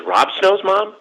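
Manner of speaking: high, surprised question; imitated startled recognition. Daughter recognising the visitor at the door, imitated surprise. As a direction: act out sudden recognition, voice shooting up.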